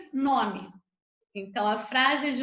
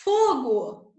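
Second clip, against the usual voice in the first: demo shout; 4 dB louder than usual. Shown as a demonstration. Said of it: "Se eu grito".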